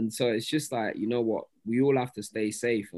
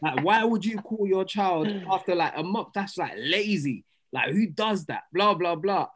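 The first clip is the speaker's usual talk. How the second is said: retold indignant questioning; mildly worked-up re-enactment of a rant; passionate rant; 5 semitones higher than usual. Retelling own barbershop rant about lazy naming, passionate. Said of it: "you know how I get passionate".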